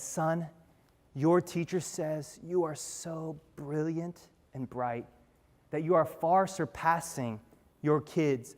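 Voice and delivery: lightly voiced tender mother, softly measured; gentle mother. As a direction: break it to a child softly and slowly. Mother gently reads note to son.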